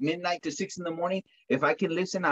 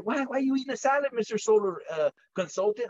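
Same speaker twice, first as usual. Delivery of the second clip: curious coworker voice; 5 semitones higher, faster than usual. Retold or imitated.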